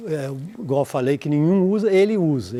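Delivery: ordinary talk, nothing marked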